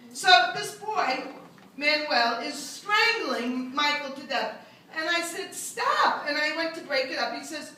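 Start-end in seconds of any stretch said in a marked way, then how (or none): 5.5-6.3 much higher sharp "Stop."; high yelp. Retold or imitated. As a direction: yelp to break up a fight. Breaking up a fight.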